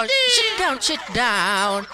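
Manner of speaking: squeaky praising a dog. Acted. Ordering child like a dog.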